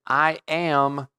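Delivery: "I am" set out deliberately, word by word; stress on "I am". Retold or imitated. Preacher quoting Jesus to the congregation, stressing "I am". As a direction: lean on both words, "I am". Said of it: "there's that emphasis on the words".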